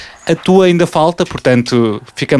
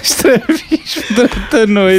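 laughing; 8 semitones higher, slower than usual. Real, not acted.

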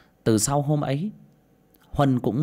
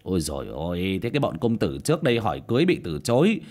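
gossiping village woman; 3 dB louder than usual. Acted. Village gossip mocks Thi.

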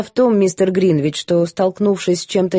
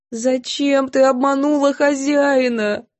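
tearful reproach; 7 semitones higher, slower than usual. A narrator's reading. Maid sobbing reproach.

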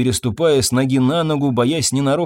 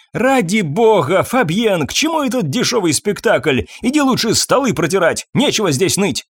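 scornful dismissal; 7 semitones higher than usual. A narrator's reading. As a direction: brush off his theatrics. Irene dismisses Fabien scornfully.

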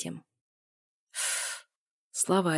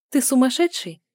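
shocked; 7 semitones higher, 7 dB louder than usual. A narrator's reading. Shocked heroine, higher louder.

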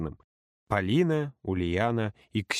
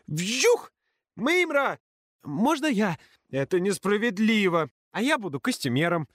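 put-on kids shouting; 10 semitones higher than usual. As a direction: yell over each other. Kids shouting over each other.

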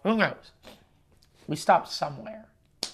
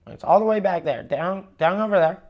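retold guard, louder and higher; calling out directions; 3 semitones higher, 6 dB louder than usual. Security guard pointing a lost traveller back, calling out. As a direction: imitate someone directing from afar, voice raised.

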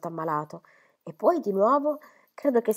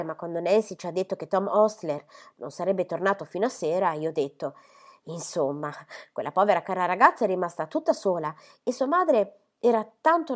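an eager lady bustling in to scold fondly; chattering Miss Phoebe; 3 dB louder than usual. Acted.

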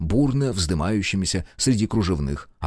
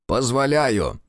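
magnanimous; 5 semitones higher, much slower than usual. Acted. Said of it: "свеликодушничал коллежский советник".

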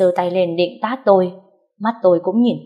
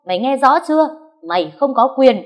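raised, higher-pitched rebuke; angry scolding; 6 semitones higher, 3 dB louder than usual. A narrator's reading. Narrator voices mother-in-law berating the wife, angry. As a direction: lay down the law, moderately heated.

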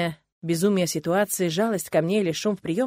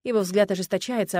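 usual speaking voice

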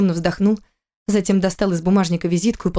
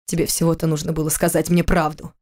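with feeling. Acted. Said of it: "ответил он с чувством".

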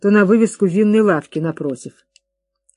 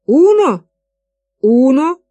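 astonished disbelief; 7 semitones higher, 6 dB louder, slower than usual. Acted. Amazed at only one suit.

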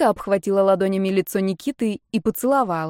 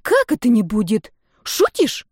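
as if it must be a joke; a friend's stunned, rising disbelief; disbelieving friend; 3 semitones higher, 3 dB louder than usual. A narrator's reading. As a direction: voice leaps up high on shutish.

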